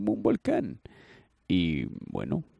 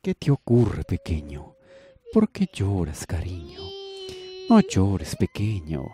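tender; slower than usual. Acted. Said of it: "con sumo cariño".

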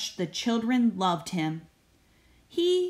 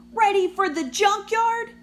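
high, loud indignant bus; sizzling indignation; 11 semitones higher, 5 dB louder than usual. Acted. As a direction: spit it back, offended. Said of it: "he sizzled".

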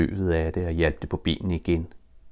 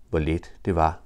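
plain reading voice

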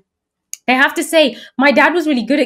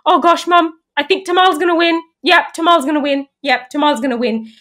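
put-on little girl voice; 5 semitones higher than usual. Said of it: "holding onto my leg saying".

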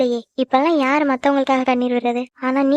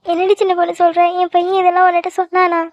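moved, on the edge of tears; tearful; 2 semitones higher than usual. Acted. Aunt learns her son worries about her, tearful. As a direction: ask it with a touch of crying. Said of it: "எதுக்கு சித்தி இப்படி அழுகுற".

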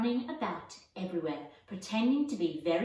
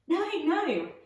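a light laugh running through a high, bright no, no; giggling protest from the little girl; 9 semitones higher, 6 dB louder than usual. A narrator's reading. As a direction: laugh it off, amused.

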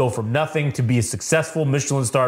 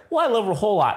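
high mock lovesick; 6 semitones higher, much faster than usual. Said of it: "he's like".

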